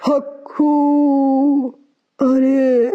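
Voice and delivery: very slow, drawn-out mystic call in a mannish tone; man's voice. Acted. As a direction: stretch the chant like a male fakir. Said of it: "آپ کی آواز تو ایک دم مردوں والی ہے".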